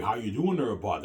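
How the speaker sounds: lightly put-on western Canadian twang; a hint of out-west Canadian accent. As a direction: imitate a friendly western Canadian greeting. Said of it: "when you go out west in Canada".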